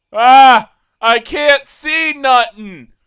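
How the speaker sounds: loud, high outcry; real alarmed shout; startled yell. Real, not acted. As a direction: shout like suddenly blinded. Blinded at round start.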